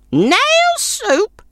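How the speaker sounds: put-on high, disbelieving old woman; scornful snort. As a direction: scoff at the silly idea. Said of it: "snorted the old woman".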